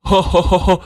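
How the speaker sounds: amused, needling chuckle; teasing laugh. Acted. Natwar laughs at her threat.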